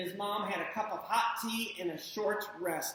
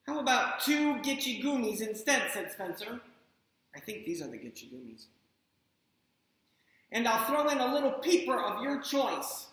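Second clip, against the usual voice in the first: put-on bargaining child; 4 semitones higher than usual. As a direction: strike a deal like a kid. Spencer keeps bargaining.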